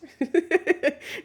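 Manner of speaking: high, loud burst of laughter; real high-pitched laugh. Real, not acted. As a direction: crack up at your own joke. Joking about losing at thumb war.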